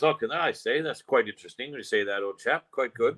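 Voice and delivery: hammed-up British old-chap accent; mock-polite English accent; stupid English accent. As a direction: put on a silly English gent's accent. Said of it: "that's a stupid accent".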